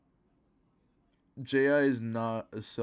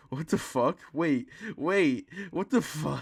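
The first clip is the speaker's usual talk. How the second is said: surprised; 5 semitones higher than usual. Real, not acted. Eyes suddenly appear in clip.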